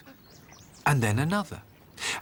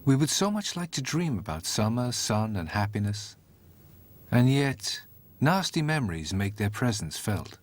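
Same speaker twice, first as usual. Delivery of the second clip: poetic narration; 2 semitones lower than usual. A narrator's reading. Storyteller musing on dreams, gentle reflective read.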